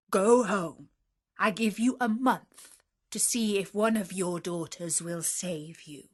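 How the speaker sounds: loud orders, rising to a threat; commanding beast. Acted. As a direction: warn him he cannot hide. Beast gives the merchant orders.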